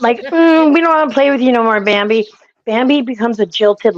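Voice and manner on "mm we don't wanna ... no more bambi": higher, rapid-fire dismissive brush-off; fast mocking brush-off. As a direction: rattle it off like a bored rejection. Mocking younger men's brush-off.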